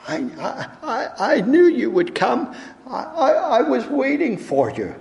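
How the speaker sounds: put-on high, bright child voice with a smile and a little laugh; little girl voice. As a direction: play a shy, happy little girl. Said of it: "and with a smile she said".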